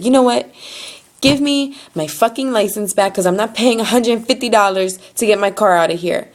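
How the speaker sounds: mildly angry retold demand; retold anger. Customer demands license back from tow lady, mildly angry. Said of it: "I finally got angry".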